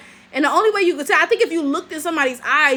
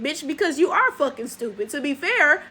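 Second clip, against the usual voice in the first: ordinary delivery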